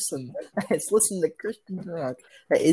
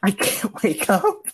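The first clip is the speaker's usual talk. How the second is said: slow, higher ghostly plea; pleading from a coma; 4 semitones higher, slower than usual. Pretend. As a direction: call out faintly from a coma.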